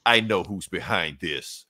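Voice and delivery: slow, low, grave Superman voice; a low, slow dramatic reveal; ominous Superman. Acted. Superman darkly naming the villain behind it all, slow and low. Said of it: "Superman's just like".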